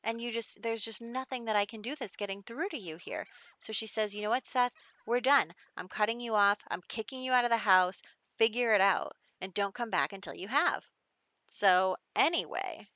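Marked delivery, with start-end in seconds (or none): 0.0-3.3 higher-pitched, exasperated mom voice; acted frustration, pitch raised; mock mad. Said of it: "She's so mad". 4.1-10.9 firm acted telling-off; mildly heated, imitated ultimatum; mock mad. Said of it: "She's so mad".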